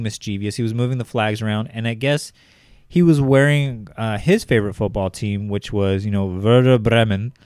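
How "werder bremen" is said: German pronunciation of Werder Bremen; German accent. Shown as a demonstration. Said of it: "I'm gonna say that as best in my German accent".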